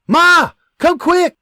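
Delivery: a son faking panic, calling his mother to come; urgent call. Acted. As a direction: shout for Ma as if Da is hurt. Son fakes alarm calling mother.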